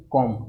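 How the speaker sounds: कॉम ending on M, B silent. Shown as a demonstration. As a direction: drop the B at the end of कॉम. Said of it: "इसमें बी silent होता है".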